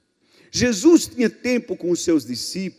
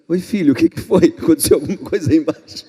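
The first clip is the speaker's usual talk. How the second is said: God, casually puzzled; 6 dB louder, faster than usual. Acted. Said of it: "é como se Deus falasse".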